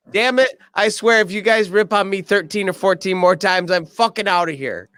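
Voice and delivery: high, exasperated whine; mock fed-up Squeak. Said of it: "Scolari says".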